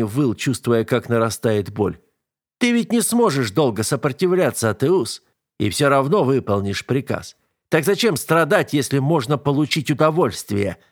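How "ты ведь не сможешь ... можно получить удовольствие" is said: higher-pitched, gloating villain; smug tormentor savouring his power; taunting tormentor. Acted. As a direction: goad the victim into giving in.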